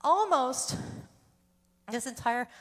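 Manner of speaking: breathless, short gasps between words; winded after singing, pausing for air; out of breath. Real, not acted. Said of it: "I'm out of breath".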